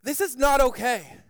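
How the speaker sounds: mildly panicked warning; frantic. Acted. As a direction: try to convince everyone of the danger. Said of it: "We begin to become frantic".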